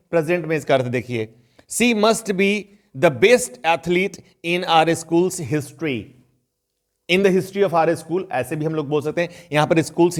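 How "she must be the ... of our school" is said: very slow, careful English example sentence; slow example read. Shown as a demonstration. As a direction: read each word out slowly for the class. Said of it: "teacher reads example slowly". (धीरे-धीरे उदाहरण वाक्य पढ़ना)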